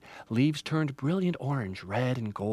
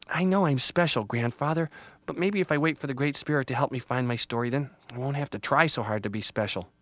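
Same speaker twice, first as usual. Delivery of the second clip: lightly voiced young tree; thoughtful Little Tree; 3 semitones higher, 3 dB louder than usual. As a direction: reason it out in a small, earnest voice.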